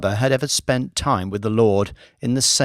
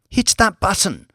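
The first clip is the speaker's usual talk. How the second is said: much higher, urgent call; urgent order; 8 semitones higher than usual. Acted. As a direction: shout it to get him moving. Maid urgent command.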